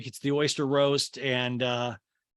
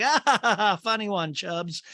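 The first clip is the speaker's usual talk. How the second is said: mock polite laugh; 6 semitones higher than usual. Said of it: "they're like".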